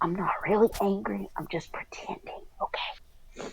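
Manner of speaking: hushed whisper, spoken very close up. Voicing a child who whispers in someone's ear: whispering. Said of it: "she whispers in his ear".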